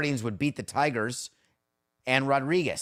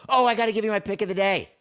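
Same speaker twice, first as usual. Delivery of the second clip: sudden recall; 9 semitones higher, 6 dB louder, faster than usual. Real, not acted. Suddenly remembers the pick.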